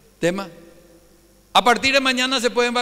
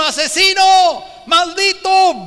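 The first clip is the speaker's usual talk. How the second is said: screaming curses, high and loud; furious shout; 9 semitones higher, 10 dB louder, slower than usual. Retold or imitated. Preacher voicing a madman cursing the fleeing king, furious shouting. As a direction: hurl the insults at him full force. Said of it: "un loco que le grita en el camino".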